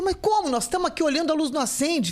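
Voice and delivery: voicing the confused relatives; puzzled family. Family puzzled in waiting room.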